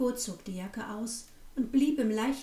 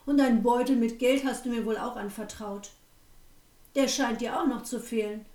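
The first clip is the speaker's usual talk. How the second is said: loud, sneering innkeeper yelling in mock disbelief; shouting; 3 dB louder than usual. Innkeeper yelling at the girl so the guests come running, loud and scornful. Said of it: "Der Wirt schrie so laut".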